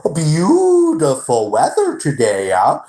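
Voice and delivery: breathy mock small talk, slow; fake-sweet chatter, half whispered; whispery manager imitation. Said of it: "That's how he talked".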